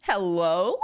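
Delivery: loud, swooping hello. Acted. Streamer doing a quick impression, loud swooping greeting. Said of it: "That's my D K impression".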